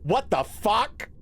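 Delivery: slow, drawn-out stunned what the fuck; slowed disbelief. Real, not acted. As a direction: let the shock stretch out. Shocked by game event.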